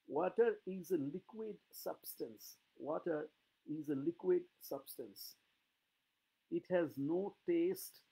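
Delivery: slow, deliberate English reading; slow reading aloud. Shown as a demonstration. Teacher reading the child's essay slowly to students. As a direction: read it slowly, word by word. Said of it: "test নয়".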